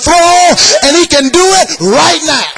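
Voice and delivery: sing-song whooping preacher cadence; preaching at full force. Acted. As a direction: chant it to the church, rising.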